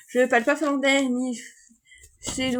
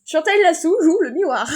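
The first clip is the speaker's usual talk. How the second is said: insistant; 5 semitones higher, 6 dB louder than usual. Real, not acted. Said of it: "il fallait que je le dise".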